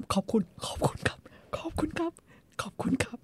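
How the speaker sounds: high whispered ขอบคุณครับ, head bowed; whispered thanks. Retold or imitated. Young man bows his head and whispers thanks. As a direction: breathe out thanks, tongue-tied. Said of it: "ลิ้นพันกันไปหมด หัวก็ก้ม".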